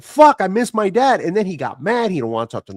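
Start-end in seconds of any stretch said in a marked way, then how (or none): 0.0-1.2 longing for dad. Retold or imitated. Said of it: "I was like".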